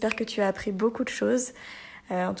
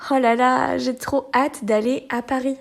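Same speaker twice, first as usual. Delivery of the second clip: an excited "oh là là" about Paris; excited joy; 3 semitones higher, 5 dB louder than usual. Shown as a demonstration. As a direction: gush with happy impatience. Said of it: "montrer qu'on est content".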